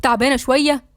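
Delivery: mildly sceptical echo question; doubting echo. A narrator's reading. Husband questions wife's tiredness, mildly doubtful. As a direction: repeat it back as a doubting question.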